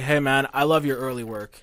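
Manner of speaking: dry, sarcastic fan compliment. Pretend. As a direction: fake praise with a smirk. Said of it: "just walk up and be like".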